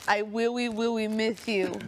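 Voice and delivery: put-on baby talk. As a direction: coo it with a babyish lisp. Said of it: "how you guys talk".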